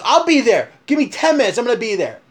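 fired-up vow to come straight over; angry on the phone. Retold or imitated. Buddy on the phone telling the groom he's coming, angry. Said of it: "I've never heard him so angry".

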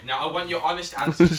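mock stern. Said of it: "I don't want any messing around".

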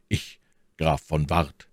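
slow, disguised count's voice. Acted. D'Artagnan claims to be Count Ward, slow disguised voice. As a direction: slowly pass yourself off as the count. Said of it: "mit verstellter Stimme".

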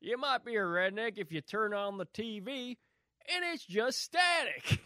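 put-on redneck comic, rising high on the punchline; redneck comic impression. Topping the co-host's redneck joke, redneck comic impression.

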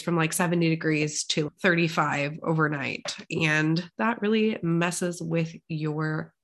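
congested, with vocal fry; croaky vocal fry from a cold. Real, not acted. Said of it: "sorry for the vocal fry today".

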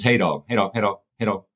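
stuttering on the greeting. Retold or imitated. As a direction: repeat it with a stutter. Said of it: "he's got this stutter".

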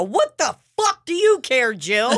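sharp, high retold yell at a nosy customer; mock yell. Bartender yelling at nosy Jill, high mock yell. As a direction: shout it up high in disbelief. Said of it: "And I go".

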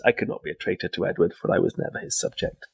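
a quiet, lightly put-on Scottish accent; bad Scottish accent. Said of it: "in not bad, in my bad Scottish accent".

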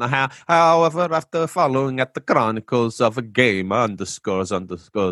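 put-on Italian with added vowel endings; Italian accent attempt. Host retrying a listener's message, put-on Italian accent. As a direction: have another go at mock Italian. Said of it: "really Italian Italian with a heavy accent".

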